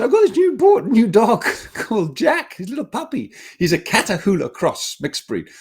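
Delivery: the friend showing off her new puppy, a high hammed-up voice; imitating the friend. Friend proudly introduces new puppy.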